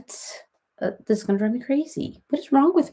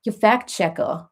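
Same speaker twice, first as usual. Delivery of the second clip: drawn-out Long Island accent; Long Island accent, dropping the final r. Shown as a demonstration. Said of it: "let me get my Long Island accent".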